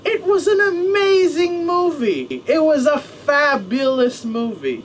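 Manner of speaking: high, gushing praise with a laugh. Real, not acted. Vlogger gushing to viewers about the movie, high and laughing. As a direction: swoon over the movie, half laughing.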